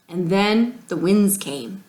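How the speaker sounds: hushed, slow whisper. Acted. Old man recalling the drought to the family, whispered. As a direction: whisper it like a dark memory.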